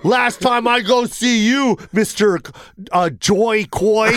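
slow, emphatic mock complaint; mock outraged tweet. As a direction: read out the post with feigned offence. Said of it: "This is what they tweet out".

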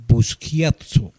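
Busquiazzo slowly, as boos-KYAT-so; careful name pronunciation. Shown as a demonstration. Host sounding out a player's surname, careful pronunciation. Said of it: "que es la manera de pronunciar".

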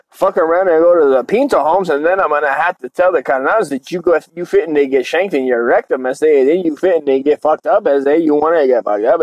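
lightly voiced Chicano tough guy; rolling singsong homie warning; mock Chicano threat.

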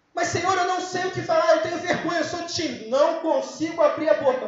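high, loud anxious plea; súplica exagerada; pleading timid believer. Acted. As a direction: beg God like a frightened beginner.

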